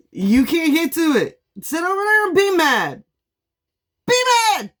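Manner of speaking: high, loud mocking taunt. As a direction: tease them from a safe distance. Taunting the haters.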